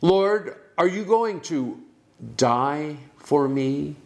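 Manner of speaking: a hint of alarm, slowing on die for me; Peter's anxious question. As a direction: ask it as a startled Peter. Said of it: "substitute the word die".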